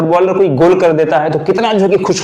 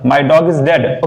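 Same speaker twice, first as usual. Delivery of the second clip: slow demo; much slower than usual. Shown as a demonstration. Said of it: "जैसे आलस".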